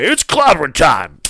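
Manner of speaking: lightly put-on wrestler catchphrase; slow, drawn-out mock battle cry; a hint of a wrestler bursting in; Cena. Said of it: "imagine Cena just going in there".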